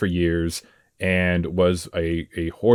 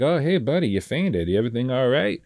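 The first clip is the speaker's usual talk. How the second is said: lightly imitated casual, friendly check-in; nonchalant; 5 semitones higher than usual. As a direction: play it breezily unbothered, pitched up on the greeting. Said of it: "he's talking to him very, like, nonchalant".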